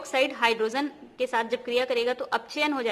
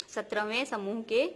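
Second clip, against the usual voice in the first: "सत्रहवें समूह के" said slowly word by word; slow the phrase "सत्रहवें समूह के" down for the class; slow repeat; slower than usual. Shown as a demonstration. Teacher repeating "सत्रहवें समूह के" slowly to her students.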